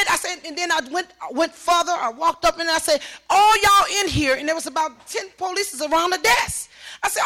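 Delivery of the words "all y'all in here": high, loud, slow address; outraged confrontation. Retold or imitated. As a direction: accuse the whole room, drawing it out. Confronting room full of police.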